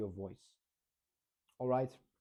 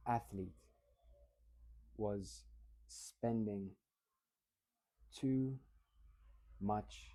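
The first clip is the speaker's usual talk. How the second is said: very slow, long pauses between words; slow deliberate reading demo; agonizingly slow; 4 semitones lower, 4 dB quieter, slower than usual. Shown as a demonstration. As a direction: drag each word out slowly. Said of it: "incredibly slow, almost agonizingly slowly".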